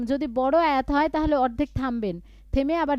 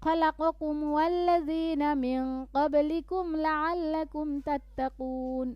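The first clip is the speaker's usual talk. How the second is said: quick pick-up from the stop; resuming after a pause; 2 semitones higher, much slower than usual. Shown as a demonstration. Teacher shows how to resume after stopping. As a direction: restart briskly from the cut word. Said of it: "থেমে আবার বলবেন".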